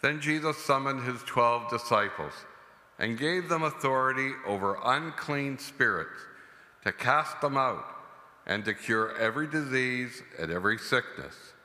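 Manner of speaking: solemn liturgical reading; Gospel reading. Acted. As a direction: proclaim the Gospel at mass. Priest proclaims the Gospel.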